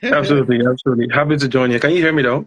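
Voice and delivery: sore jaw after dental implant; talking with jaw barely open. Real, not acted. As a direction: speak without opening mouth much. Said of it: "excuse me if I'm talking a bit funny".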